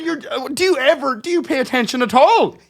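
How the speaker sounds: high, loud incredulous scolding; retold exasperation. Asking Margaret if she pays attention, loud exasperated disbelief. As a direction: demand it loudly, voice pitched right up.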